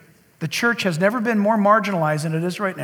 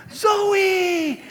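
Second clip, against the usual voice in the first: shouting a name; 11 semitones higher than usual. Retold or imitated. Pastor calling his leaping dog Zoe, alarmed high shout. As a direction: call out sharply to stop her.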